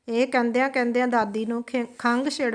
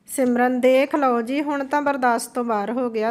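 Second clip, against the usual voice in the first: loud complaint; 5 dB louder than usual. Acted. Wife complains loudly to husband.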